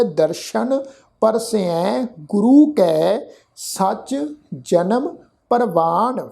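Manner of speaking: slow, drawn-out verse recitation; scripture recitation. Shown as a demonstration. Teacher repeats the verse for the congregation, slow measured recitation. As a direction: recite it measured, stretching the long vowels. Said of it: "ਫਿਰ ਦੁਬਾਰਾ ਪਾਠ ਉਚਾਰਨ ਕੀਤਾ ਹੈ".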